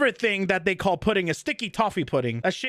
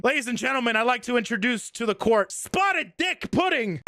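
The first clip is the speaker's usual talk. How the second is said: lightly hammed-up courtroom introduction; mock announcer; 3 semitones higher than usual. Streamer presenting the favorite pudding to viewers, mock announcer. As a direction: present it like a show host, slightly raised pitch.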